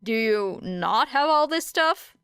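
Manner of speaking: a touch of disbelief, lightly voiced; incredulous. Era asking her classmates in mild disbelief. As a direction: ask it as if the answer must be obvious. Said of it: "asked Era incredulously".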